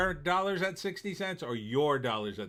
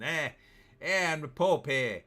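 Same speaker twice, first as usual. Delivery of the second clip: put-on a clumsy, louder Boston accent; half-hearted Boston accent attempt; bad Boston accent; 2 semitones higher, 4 dB louder than usual. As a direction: try a Boston accent and miss. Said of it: "I can't do Boston too well".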